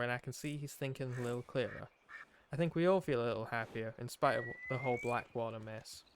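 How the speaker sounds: lightly put-on outlaw accent for a journal; Arthur's put-on accent. Player reading Arthur's journal aloud, put-on accent. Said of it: "doing this accent".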